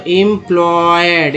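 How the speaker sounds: slow syllable by syllable: एम्प्लॉयड with एम drawn out; slow demo. Shown as a demonstration. Teacher showing students the word, slowly sounded out. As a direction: spell out एम्प्लॉयड slowly for the class. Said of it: "ईएम को एम बोलते हैं".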